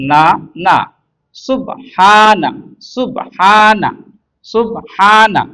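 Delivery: measured syllable-by-syllable spelling chant; teacher's drawn-out drill delivery; recitation drill. Shown as a demonstration. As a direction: sound out each syllable, pausing for repetition. Spelling drill for Quran reading.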